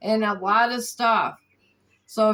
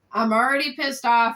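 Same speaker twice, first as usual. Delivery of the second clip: pissed off, louder now; louder annoyed; 4 dB louder than usual. Real, not acted. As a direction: raise the voice in irritation.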